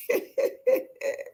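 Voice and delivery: high, breathy giggling burst; high-pitched laugh. Acted. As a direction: let out a string of high giggles. High noise after Hagar storms out.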